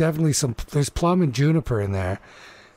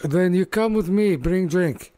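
gruff orc command; 6 semitones higher than usual. Acted. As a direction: bark it like a big orc chef. Orc orders Magma to kitchen.

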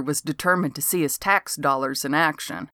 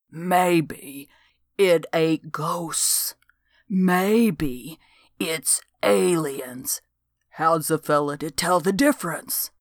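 secretive hush; slower than usual. Acted. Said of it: "whispering like he feared someone might be listening".

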